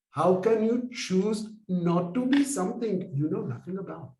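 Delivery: imitated monk in a heavy Indian accent; thick Indian accent. Monk challenges his student on denying the past, thick Indian accent. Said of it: "with the thickest Indian accent ever".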